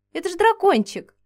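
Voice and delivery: high, loud amazed exclamation. Acted. Heroine discovers the creature is a little dragon, amazed exclamation. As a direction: gasp it out in delight and wonder. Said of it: "поразилась я".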